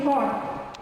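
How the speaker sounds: Arabic-style R in "far"; Arabic accent. Shown as a demonstration. Teacher shows how we say it in Arabic, Arabic accent. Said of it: "In the Arabic one, we say".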